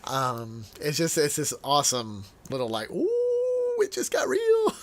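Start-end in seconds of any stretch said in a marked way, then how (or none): 2.9-4.7 squealed ooh, pitched way up and louder; a hammed-up gasp of delight at the drama; playful high squeal, half laughing; mock ooh. Mock exclamation about God's threat.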